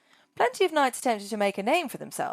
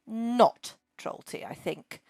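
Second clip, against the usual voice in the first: snorting dragon; 3 semitones higher than usual. Acted. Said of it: "she snorted".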